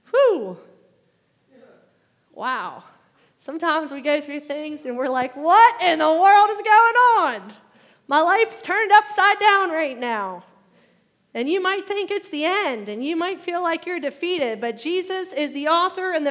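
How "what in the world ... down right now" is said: loud, high, bewildered outcry; exasperated cry. Retold or imitated. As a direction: cry out at a life turned upside down. Congregant's imagined cry of confusion.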